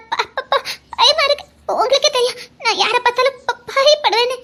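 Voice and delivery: put-on a timid girl tripping over the word; stammering fear.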